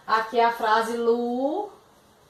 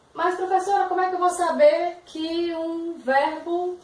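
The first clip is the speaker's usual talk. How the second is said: lightly voiced puzzled student, higher pitch; imagined student's question; 6 semitones higher than usual. Student asks the teacher how to know, lightly voiced questioning. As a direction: slightly raise the pitch as a student querying the teacher.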